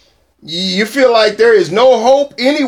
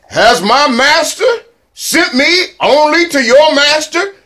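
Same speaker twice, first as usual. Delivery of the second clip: mocking enemy envoy; 4 semitones higher, slower than usual. Preacher voicing enemy commander's taunt.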